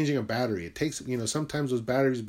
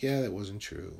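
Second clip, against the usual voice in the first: sheepish admission; 5 semitones lower, 7 dB quieter than usual. Retold or imitated. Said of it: "I had to be like".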